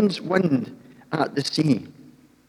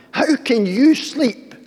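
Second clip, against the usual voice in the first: stern captain; 11 semitones higher, 4 dB louder, slower than usual. Acted. Captain rousing sleeping Jonah.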